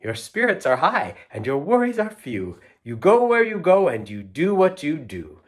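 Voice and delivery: lilting, rhythmic storybook reading; poem read aloud. Acted. Reader sharing a poetry book with children, sing-song rhythm. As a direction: read the rhymes with a playful bounce. Reads rhyming poem to kids.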